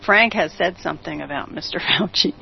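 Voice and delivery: real giggle breaking into the words; giggling. Real, not acted. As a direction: fight back a laugh mid-line. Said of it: "I'm giggling here".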